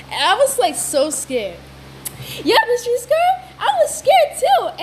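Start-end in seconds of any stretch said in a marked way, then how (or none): 2.4-4.8 toy character voice. Pretend.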